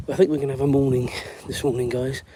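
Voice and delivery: ordinary talk, nothing marked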